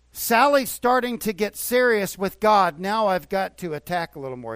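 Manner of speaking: a loud, gloating Satan spotting a new target; Satan scheming. Retold or imitated. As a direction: ham up the devil plotting against her. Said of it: "Satan will turn up the heat".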